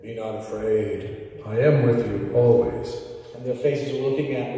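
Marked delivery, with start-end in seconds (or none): 0.0-3.0 low voice. Shown as a demonstration. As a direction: drop low and solemn, as Jesus might. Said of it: "was it low like this".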